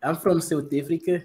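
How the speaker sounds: attempted South African accent, vowels shifted. Shown as a demonstration. Repeating the demo after "you said what", South African accent. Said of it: "do a South African accent".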